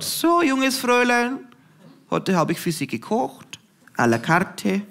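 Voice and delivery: a hint of a cross old granny putting on posh German; grandma, annoyed, addressing the vegan girl formally; grumpy grandma in High German. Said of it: "sagt sie es auf Hochdeutsch".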